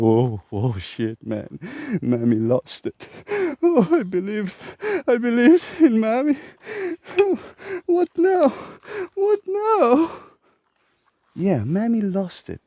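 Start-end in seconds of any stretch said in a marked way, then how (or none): 0.0-10.1 mocking panicked viewer. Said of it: "You're gonna be like".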